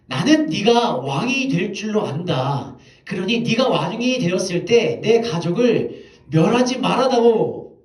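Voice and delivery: Saul wailing plea. Retold or imitated. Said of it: "통곡하면서 다윗에게 울".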